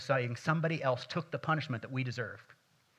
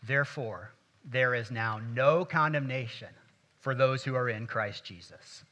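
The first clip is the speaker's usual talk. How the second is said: reading together; 4 dB louder than usual. Real, not acted. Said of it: "let's read this one more time".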